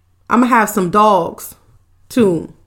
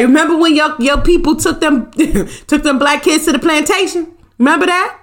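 higher, needling questions with a laugh breaking in; mock taunting; 6 semitones higher than usual. Bossy employer needling her future driver, mock taunting. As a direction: taunt him in a raised, lilting voice.

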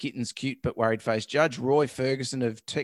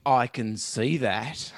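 deadpan; 3 semitones lower, much slower than usual. Retold or imitated. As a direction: say it dry and unimpressed. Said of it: "Ferguson deadpans".

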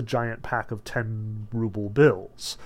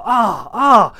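loud, high voiced "ah"; drawn, theatrical gasps of amazement; amazed gasps; 7 semitones higher, 9 dB louder than usual. A narrator's reading. Crowd watching money rain down, amazed gasps. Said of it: "There were gasps of".

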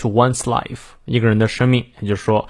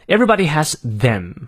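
"everybody" and "them" both emphasized; stress on EVERYBODY, THEM; 3 semitones higher than usual. Shown as a demonstration. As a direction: lean on "everybody", then on "them". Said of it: "everybody和them在这里呢可以重读".

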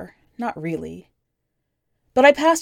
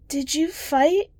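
put-on higher young girl's voice, plain and matter-of-fact; the kid's voice; 8 semitones higher, slower than usual. A narrator's reading. The kid telling the stranger about her parents, in a higher child voice. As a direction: lift the pitch to play the nine-year-old.

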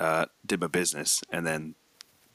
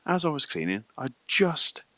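lightly voiced cleaner, higher; imitating the cleaner; 4 semitones higher than usual. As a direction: mimic the stressed cleaner, slowing at the end. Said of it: "He went".

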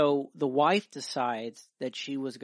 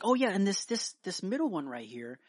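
nurse's voice; 6 semitones higher than usual. Acted.

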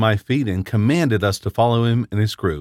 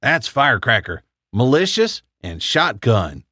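a hint of a helium squeak. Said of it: "like someone who just inhaled a lot of helium".

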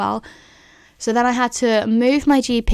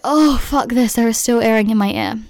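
mildly exasperated, a touch louder; mock fed-up groan of a reply; retold exasperation; 4 dB louder than usual. Patient answering her doctor, mildly exasperated.

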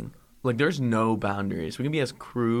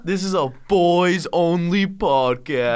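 hyped announcer; 5 semitones higher, 7 dB louder, slower than usual. Acted. Hyping the show intro.

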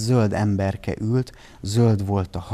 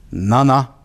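mock roar; 3 semitones higher, 7 dB louder than usual. A narrator's reading. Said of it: "már ordít is".

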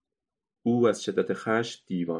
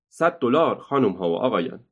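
tempting call; 3 semitones higher than usual. Acted. Ringmaster tempting the crowd.

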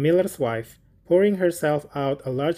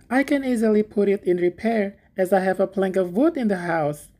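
higher, eager simple gardener voice; little Hans; 5 semitones higher than usual. Acted. Hans thanking the miller for asking, high and eager. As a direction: play Hans as a humble, grateful friend.

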